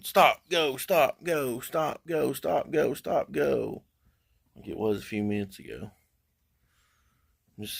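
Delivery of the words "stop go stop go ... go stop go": higher choppy stop, go loop; sing-song the app switching back and forth; imitating a flickering app. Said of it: "It's not going".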